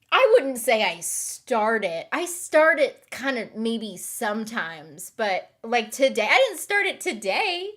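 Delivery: loud, high-pitched self-defence; indignant protest. Real, not acted. Answering claim she starts this whole thing, loud indignant protest. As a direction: protest the blame loudly, pitch climbing toward the end.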